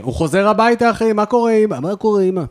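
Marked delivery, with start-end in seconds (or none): 1.1-2.4 raised-pitch everyday greeting to mum; ordinary son greeting. Pretend. Friend imagines the man coming home, casual greeting. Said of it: "הוא איש רגיל".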